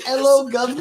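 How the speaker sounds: imitated British greeting, high and laughing; mocked British. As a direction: parody someone's bad British accent, tickled. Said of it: "Is that your British?".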